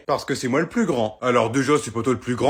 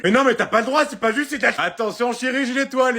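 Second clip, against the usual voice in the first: raging gamer; 8 semitones higher than usual. Acted. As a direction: rage at losing the race. Mother loses the kart race.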